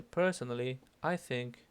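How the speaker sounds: I picked out to mark one's own opinion; stress on I. Shown as a demonstration. Teacher showing how to set off one's own opinion, stress on I. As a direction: lean on the word I in "I think". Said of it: "Se enfatizan estas palabras".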